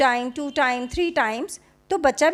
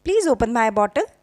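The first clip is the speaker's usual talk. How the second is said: very slow, clear teaching demo; slow, careful English for a toddler; slow model phrase; much slower than usual. Shown as a demonstration. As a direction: lay out each word slowly for the child to repeat. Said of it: "आप बोलो उसको".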